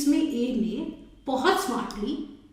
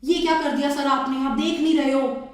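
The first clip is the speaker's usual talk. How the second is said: mildly raised, quick angry complaint; angry scooter rider; 3 dB louder than usual. Acted. Scooter rider scolding the car driver, mildly angry. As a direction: scold the driver who hit you, a touch louder. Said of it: "scooter वाला एकदम गुस्से में है".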